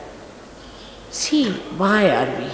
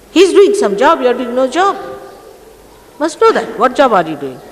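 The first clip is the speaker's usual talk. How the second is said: scolding; 5 semitones higher, 4 dB louder than usual. Real, not acted. Scolding listeners who criticize the organizer.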